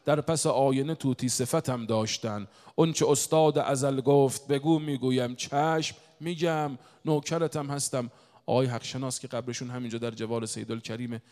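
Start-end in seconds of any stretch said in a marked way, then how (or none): 0.1-8.1 emphatic, measured verse recitation; preacher declaiming poetry; poem recitation. Acted. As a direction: proclaim the couplet, stretching its last words.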